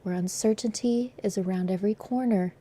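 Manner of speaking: soft, breathy ASMR reading. Pretend. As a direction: read it close and hushed like ASMR. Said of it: "We're gonna go full A S M R".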